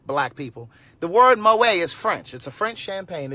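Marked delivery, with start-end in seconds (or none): 1.0-2.3 slow, louder, every word weighted; teacherly emphasis. Shown as a demonstration. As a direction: lay it out slowly like a lesson. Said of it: "I'm trying to teach you".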